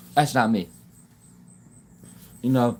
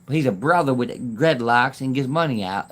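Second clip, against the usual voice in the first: slower, drawn-out talk with laughs between; playful slowed-down imitation; Damon Darling impression; slower than usual. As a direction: lightly imitate his drawling hype. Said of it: "That's how he talks".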